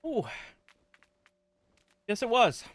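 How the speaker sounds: mouth full of hot food. Real, not acted. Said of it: "I just burned the shit out of my mouth".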